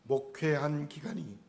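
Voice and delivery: ordinary talk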